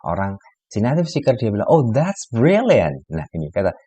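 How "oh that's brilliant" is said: drawn-out ironic "brilliant" with a high start, falling; sarcastic praise. Shown as a demonstration. English teacher showing a native speaker's sarcastic reply. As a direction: fake enthusiasm that really means disaster.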